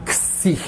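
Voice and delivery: "xi" said softly as "ksi"; quiet demo of the Greek letter "xi"; letter xi said aloud. Shown as a demonstration. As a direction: breathe out "xi" as "ksi". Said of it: "tem a pronúncia de xi".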